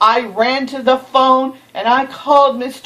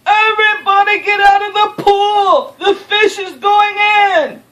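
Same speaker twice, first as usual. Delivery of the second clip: fireman's shout; 9 semitones higher, 4 dB louder than usual. Acted. Fireman ordering swimmers out of the pool, loud and high. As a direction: clear the pool at full voice. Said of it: "The fireman yelled".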